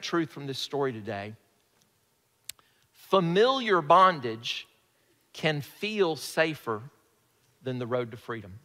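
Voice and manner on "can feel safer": "feel" drawn out slowly and stressed. Real, not acted. Preacher sharing a truth with the congregation, stress on "feel". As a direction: lean slowly on the word "feel". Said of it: "Emphasis on the word feel".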